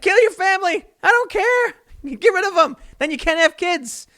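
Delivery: high, loud mock rant; hammed-up shouting comic bit; a comic yelling at a crowd in a high, loud mock fury; mock Bill Burr rant. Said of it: "He's like".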